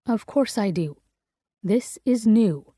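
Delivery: low and calm. Acted. Ivy calming frightened Gray, low and calm. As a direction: keep it calm to settle him. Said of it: "So I keep my voice low, calm".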